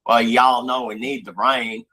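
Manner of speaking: lightly played Texan accent; Texas accent. Joking to a friend about the rainstorms, in a Texas accent. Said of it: "then I'll do my Texas accent".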